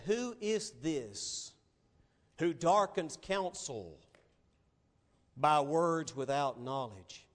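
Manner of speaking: slow, weighty voice of God; slow majestic God voice from the whirlwind; God speaking. Acted. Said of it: "And he said".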